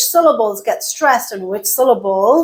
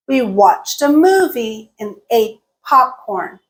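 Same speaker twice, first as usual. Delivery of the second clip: WATCHED, MOVIE, ATE, POPCORN stressed, "and" reduced; content words stressed. Shown as a demonstration. Teacher repeating sentence one, content words stressed. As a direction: lean on each content word, squeeze "a" and "and". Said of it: "and got reduced".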